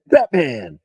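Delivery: sudden punchy call-out; imitated "Batman". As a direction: throw it out like a teasing call. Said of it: "like that".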